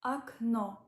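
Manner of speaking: Окно as akNO, unstressed first o said like a; repeated demo of Окно; Russian word окно. Shown as a demonstration. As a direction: model Окно with stress on the final o. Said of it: "first O is unstressed".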